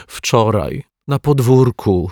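sniffling. Acted. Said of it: "chlipała Asia".

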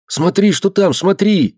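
excited whisper. A narrator's reading. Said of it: "взволнованно зашептал Андрей".

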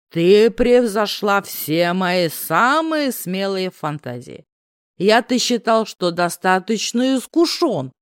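put-on slow, slurred drunk man; lazy, tipsy seductive drawl. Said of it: "Пьяно мукнул красавец".

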